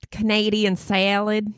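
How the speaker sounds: exaggerated American "salad"; American accent. Shown as a demonstration. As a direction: say it in broad American. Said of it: "I could say it in American".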